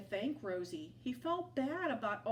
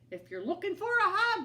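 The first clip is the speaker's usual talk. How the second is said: grudging offer; 11 semitones higher, 9 dB louder, faster than usual. A narrator's reading. Hank offering hug.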